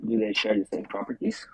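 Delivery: muffled, underwater-sounding mic. Real, not acted. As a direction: voice through a bad muffled mic. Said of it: "you sound like you're underwater".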